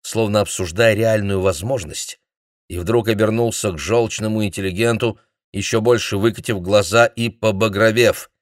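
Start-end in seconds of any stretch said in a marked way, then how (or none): none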